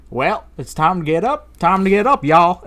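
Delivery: high, drawn cowboy wake-up call; imitated cowboy. Cowboy alarm waking the room, imitated cowboy call. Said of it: "to a cowboy saying".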